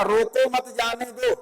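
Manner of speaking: "रोको मत जाने दो" slowly as one phrase; unbroken example sentence. Shown as a demonstration. Teacher quoting an example sentence to students, slow and unbroken. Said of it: "यानी हमको तब यहाँ कामा लगाना होगा".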